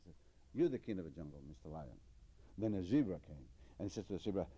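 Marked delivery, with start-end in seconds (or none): 0.5-2.0 low, soft and timid, fading out; meek answer. Acted. Giraffe who wants no trouble answers the lion, low and meek. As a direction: cower before the bully lion.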